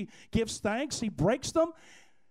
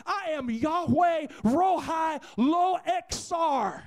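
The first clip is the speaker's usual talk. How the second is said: impassioned preaching; 6 semitones higher, 4 dB louder than usual. Real, not acted. Preacher urging the congregation to grasp the Lord as shepherd, full-force preaching. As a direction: drive it home to the congregation.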